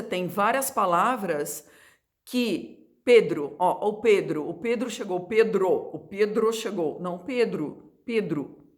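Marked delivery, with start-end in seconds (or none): 2.2-3.6 "Pedro" said slowly, spelled with o; drawn-out "Pedro", careful and slow. Shown as a demonstration. Teacher contrasting spelling and sound of Pedro. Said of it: "escrevem com O, mas o som é do U". 7.0-8.7 "Pedro" ending in u, Pedru; "Pedro" said as Pedru, soft final u. Shown as a demonstration. Teacher correcting the student's Pedro.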